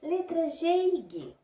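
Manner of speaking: G and G, the second said "guê" with the U sound; letters said clearly. Shown as a demonstration. Teacher naming G e G for the class, each letter clear. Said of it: "Sons representados pelas letras G e G".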